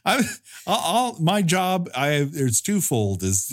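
laughing, lightly voiced angel role; a hint of a smug angel; mock character voice. Voicing John Huston's angel character.

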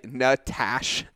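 Natash cut off after "TASH", A as in "ash"; practice cue. Shown as a demonstration. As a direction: say Natash with the A of "cat", no final vowel. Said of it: "So I just say".

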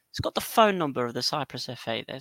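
usual speaking voice

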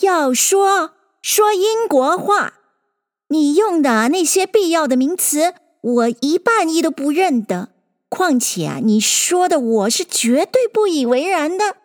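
mildly clamoring story-bird protest; protesting eaglet. A narrator's reading. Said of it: "那个小鹰嚷道".

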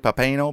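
Pompano with a long A, puh-PAY-no; alternative pronunciation. Real, not acted. Reader trying out another guess, Pompano said puh-PAY-no.

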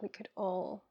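earnest spoken prayer, dropping to a hush at times; heartfelt prayer. Acted. Guest praying for listeners, earnest prayer voice. Prays aloud on podcast.

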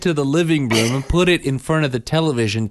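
hammed-up list of the kids' sins; mock nagging parent. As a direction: nag like a fed-up parent. Mimicking the kids' habits.

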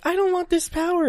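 high mock whine; mock Jean. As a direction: whine it like a pouty girl. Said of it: "she's like".

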